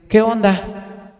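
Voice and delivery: slow, drawn-out mock street slang. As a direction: toss off the slang as a joke. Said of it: "nunca me vas a ver a mí diciendo".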